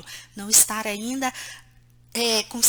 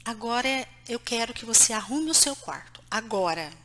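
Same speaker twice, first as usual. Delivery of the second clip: firm tone; 2 semitones lower, 3 dB quieter than usual. Shown as a demonstration. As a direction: set the rule calmly but unbending. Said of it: "tom de voz". (tom de voz firme e baixo)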